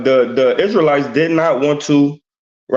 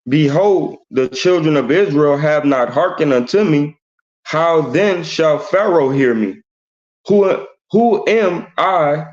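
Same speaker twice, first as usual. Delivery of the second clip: slow, deliberate verse reading; scripture reading. Acted. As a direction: read each phrase out solemnly, with pauses. Reads scripture aloud.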